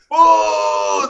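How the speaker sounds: long, high booing; imitated crowd boo. Crowd heckling the comic off stage, long loud boo. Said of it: "The boos were so loud".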